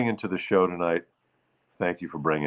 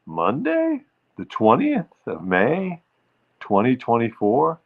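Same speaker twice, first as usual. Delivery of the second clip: sing-song date; 2 semitones higher than usual. Shown as a demonstration. Host announcing the date with a sing-song lift. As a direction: announce it with a flourish. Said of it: "Say it like you mean it".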